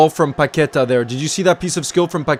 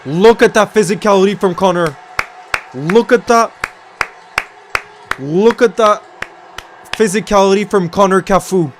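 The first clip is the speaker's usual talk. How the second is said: raised, emphatic cheer for a big play; loud, higher-pitched burst of admiration; excited praise; 4 semitones higher, 5 dB louder than usual. Real, not acted. Fan cheering Connor's physicality, excited and loud. Cheering a tackle during live watchalong.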